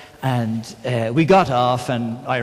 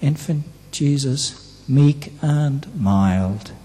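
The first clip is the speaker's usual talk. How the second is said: put-on softer, slow "meek and mild" like a child's prayer; soft, slowed childhood prayer recital; 3 semitones lower, 6 dB quieter, slower than usual. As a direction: recite it gently, drawn out. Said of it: "What we used to be praying".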